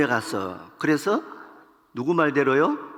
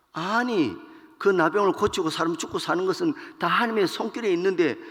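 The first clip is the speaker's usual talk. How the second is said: angry king; 5 semitones higher than usual. Acted. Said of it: "막 화가 나가지고".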